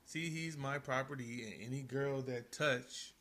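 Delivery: slow, deliberate reading of lyrics; slow lyric recital. Shown as a demonstration. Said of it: "Go ahead".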